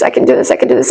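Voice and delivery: whispered, quick repeated self-talk; under-the-breath mantra. Retold or imitated. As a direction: whisper it to yourself to hold it together. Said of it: "I was like".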